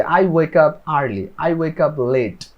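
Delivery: each word slow and separate; slow model sentence. Shown as a demonstration. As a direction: spell it out slowly for learners. Teacher models answers.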